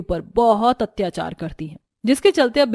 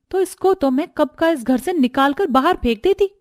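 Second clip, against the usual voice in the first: lightly voiced spiteful villainess; a hint of scornful plotting; scheming sisters-in-law; 2 semitones higher than usual. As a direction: grumble and threaten behind her back.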